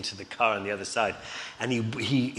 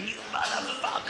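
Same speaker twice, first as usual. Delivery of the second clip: high-pitched mock yell; Lee Marvin; 12 semitones higher, 3 dB quieter than usual. Furious actor stuck on the car roof, mock yelling. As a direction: imitate a drunken curse flung after someone, strained and high.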